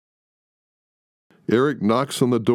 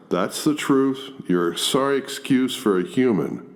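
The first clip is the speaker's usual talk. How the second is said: sneering; 5 semitones higher than usual. Acted. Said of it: "Eric sneers".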